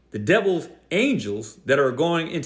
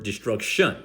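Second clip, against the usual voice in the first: "destruction" with a leaned-on -tion; misplaced emphasis; 3 semitones lower than usual. Retold or imitated. Preacher rejects his opponent's reading, "destruction" stressed on its ending. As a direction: echo the wrong stress on the end of "destruction". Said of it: "nor is it on the word".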